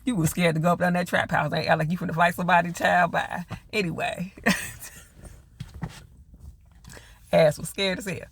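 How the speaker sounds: teasing, sassy call-out with laughs between; sassy roast. Real, not acted. Vlogger teasing Papa for faking toughness, sassy laughing roast. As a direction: roast him like he's a fraud.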